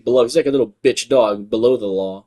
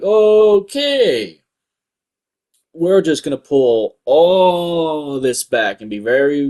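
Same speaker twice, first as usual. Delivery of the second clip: mock advertiser voice; 3 dB louder, much slower than usual. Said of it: "they're like".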